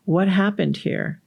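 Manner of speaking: put-on slow, even question to a child; acted patient mother gently asking; unhurried, non-accusing parental question; calm mom. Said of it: "let me tell the story a different way".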